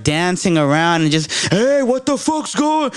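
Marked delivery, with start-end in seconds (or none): 1.5-2.9 much higher, slow, big goofy character voice; hyped coworker character. Retold or imitated. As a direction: belt it like a clowning coworker making everyone laugh. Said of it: "this full-on characters".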